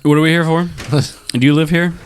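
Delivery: lightly put-on posh character. Plays a character in the game.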